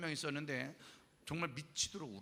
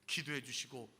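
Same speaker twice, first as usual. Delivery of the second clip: a hint of a solemn pastor addressing the camp; lightly voiced preacher calling the crowd to pray; preaching pastor; 3 semitones lower than usual. Pastor at revival camp urging kids to pray, lightly preachy. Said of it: "거기 계신 목사님이".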